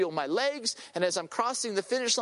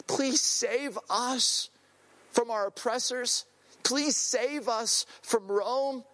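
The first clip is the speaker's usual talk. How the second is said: slow, drawn-out retold plea; crying out; 3 semitones higher, slower than usual. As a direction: plead slowly as the oppressed crowd. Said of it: "They are crying this out".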